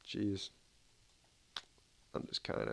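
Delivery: talking through a yawn. Real, not acted. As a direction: yawn out the words. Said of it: "I'm already yawning".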